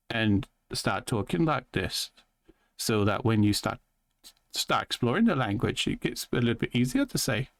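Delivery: put-on twang that drifts toward Scottish; twangy accent impression, slightly Scottish; imitated twangy accent. Shown as a demonstration. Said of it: "come out like you're talking Scottish".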